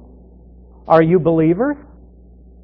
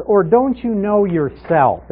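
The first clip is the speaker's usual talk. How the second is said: slow, higher, mock-incredulous question; a little sarcastic; 5 semitones higher, slower than usual. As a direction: lean on "don't" with a dry, teasing edge. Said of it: "he's being a little sarcastic here".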